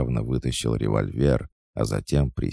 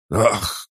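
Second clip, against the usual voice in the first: short, high dying gasp; choked rasping gasp; 10 semitones higher, 4 dB louder than usual. A narrator's reading. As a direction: gasp hoarsely as if struck down. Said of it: "Кто-то прохрипел".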